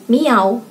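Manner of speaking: put-on child's "miau" cat sound; imitated cat meow. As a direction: mimic a cat with a simple miau. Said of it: "menirukan suara kucing". (menirukan kucing, miau)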